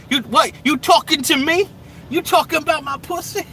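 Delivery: high, loud, jokey challenge; high mock tough-guy voice. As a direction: bait them like a movie tough guy. Rereading his own joke line.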